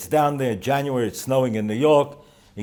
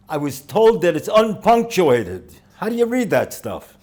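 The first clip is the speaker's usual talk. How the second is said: higher, louder puzzled asking voice; curious questioner; 8 semitones higher, 6 dB louder than usual. Retold or imitated. A stranger on the train asks about the Talmud, puzzled.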